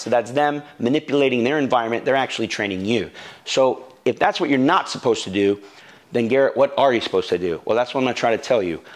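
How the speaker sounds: ordinary talk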